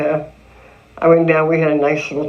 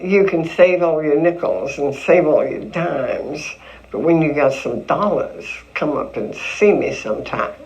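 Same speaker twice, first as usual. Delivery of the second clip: Mae West imitation. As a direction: purr it slyly like the film star. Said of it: "So I sang a little song for my family".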